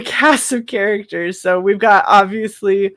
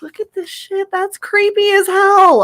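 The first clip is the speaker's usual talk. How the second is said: excited; 13 semitones higher than usual. Retold or imitated.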